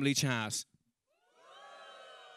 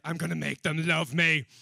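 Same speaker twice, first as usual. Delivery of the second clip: louder, hammed-up resolve; mock determination; 3 semitones higher, 6 dB louder than usual. Comedian setting off for hostile destinations, mock determined. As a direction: declare it like a grand vow. His own bravado voiced.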